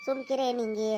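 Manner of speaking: tender hushing, pleading her to stop crying; comforting. Acted. Husband comforting weeping Ninge, tender hushing. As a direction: soothe her like a child.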